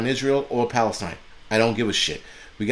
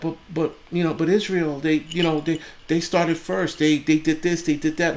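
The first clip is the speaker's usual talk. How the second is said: higher, whiny mock of their excuses; mocking whiny quote; 5 semitones higher than usual. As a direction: parody them like a nagging kid. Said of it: "people are like".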